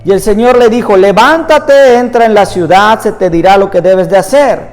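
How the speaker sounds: measured, emphatic Bible reading aloud; scripture reading. Acted. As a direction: read the passage out to a congregation, phrase by phrase. Reads Bible passage aloud.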